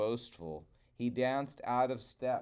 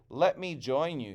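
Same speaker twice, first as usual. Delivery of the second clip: louder call to the crows; 3 semitones higher, 4 dB louder than usual. Acted. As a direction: call up to the birds. Coyote calls to crows.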